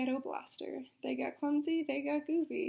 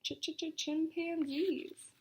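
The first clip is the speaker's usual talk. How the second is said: shout; 3 semitones higher, much slower than usual. Acted. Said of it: "and I shouted".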